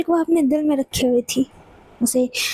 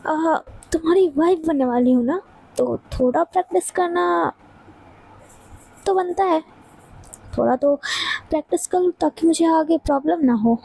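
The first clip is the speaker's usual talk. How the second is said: mock loving. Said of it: "बड़े प्यार से बोलती है".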